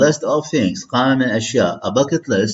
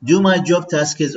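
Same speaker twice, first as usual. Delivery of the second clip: slow and much higher; slow model phrase; 7 semitones higher than usual. Shown as a demonstration. Teacher modelling a phrase for students, slow and high. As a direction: lift and stretch it for the class. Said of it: "read with me".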